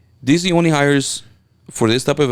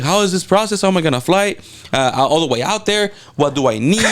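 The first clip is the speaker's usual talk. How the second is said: retold nervous questions; 7 semitones higher than usual. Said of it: "I was like".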